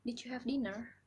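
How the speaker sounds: light American English accent. Shown as a demonstration. A student demos how an American asks about dinner, American accent. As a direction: ask it the American way, rhotic dinner. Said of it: "orang Amerika ... seperti ini".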